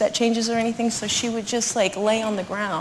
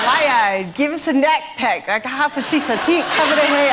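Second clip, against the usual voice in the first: put-on Geordie accent; 3 semitones higher than usual. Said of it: "It was Geordie".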